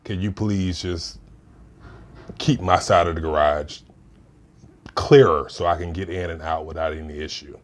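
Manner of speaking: low, measured, polite ask; low and even, no heat; calm request. Shown as a demonstration. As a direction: make the request calmly and plainly. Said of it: "the solution would be".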